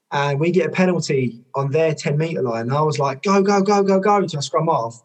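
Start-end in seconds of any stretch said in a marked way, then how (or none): 3.2-4.3 calling out go. Retold or imitated. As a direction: urge the team on, shouting to go. Calling team on for penalty.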